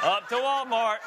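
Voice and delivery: lightly mimicking a parrot-like repeat; a hint of a man parroting back what was said; parrot echo. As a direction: echo the tail of the sentence like a parrot. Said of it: "We call him the parrot".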